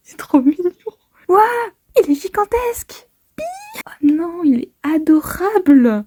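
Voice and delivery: excited cute squeal; gushing over cuteness. Acted. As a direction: coo over an adorable beast.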